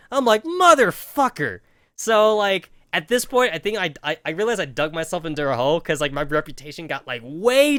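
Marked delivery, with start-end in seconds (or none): 0.4-1.6 higher, louder slow curse; exasperated curse. Retold or imitated. Cornered by the valedictorian again, loud slow exasperation. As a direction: spit it out, drawn out in frustration.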